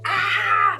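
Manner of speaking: imitating her scream from the dream; mock scream. Retelling the nightmare to a friend, a quick imitated yell. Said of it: "Eu berrava, tipo".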